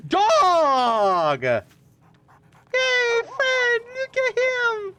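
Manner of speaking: high, squeaky coo at the dog; excited dog greeting. Real, not acted. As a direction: gush over the dog in a high voice. Excited about finding a dog.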